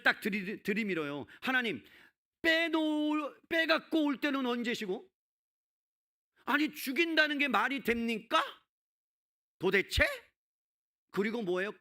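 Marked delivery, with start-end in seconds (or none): 1.4-10.0 high, loud remonstrance as Moses; acted outburst of a prophet challenging God; indignant protest. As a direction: plead loudly and indignantly, pitched well up. Voices Moses confronting God.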